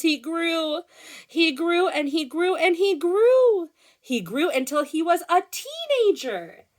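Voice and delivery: high, swelling storybook excitement; animated read-aloud. A narrator's reading. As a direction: build each grew up to the teenager. Reads story to children.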